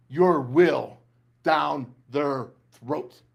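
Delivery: building rant, slowing to a crawl on the last words; fired-up coach rant that slows right down at the end. Real, not acted. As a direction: pump the team up like a pregame speech. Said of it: "Boy, I get fired up".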